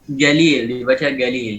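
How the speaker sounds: "galil" with a hard g sound; hard G for jim. Shown as a demonstration. Teacher shows students the faulty jim turned to g, hard g mispronunciation. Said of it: "Harf G, G".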